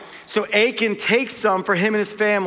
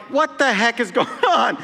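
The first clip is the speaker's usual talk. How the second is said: higher, laughing disbelief; retold bafflement; 5 semitones higher than usual. Man watching strangers command dogs at night, baffled. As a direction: act out amused bewilderment. Retold bewilderment at dog owners.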